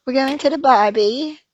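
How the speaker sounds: put-on trying out an Australian accent; attempted Australian accent. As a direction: carefully echo an Australian accent. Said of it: "You want me to repeat it for you?".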